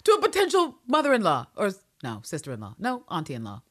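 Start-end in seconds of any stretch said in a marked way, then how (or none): 0.0-1.5 high, incredulous outburst with laughter; hammed-up disbelief, laughing through it; mock outrage. Retold outraged reaction to Abbott's rudeness.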